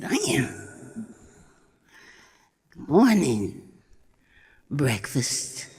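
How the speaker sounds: put-on a hungry young cat toying with its prey; menacing wildcat. Wildcat eyeing the goat as breakfast, low and menacing.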